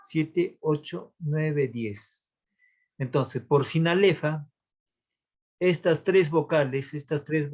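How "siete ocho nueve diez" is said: syllable counting. Shown as a demonstration. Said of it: "Bien, contemos".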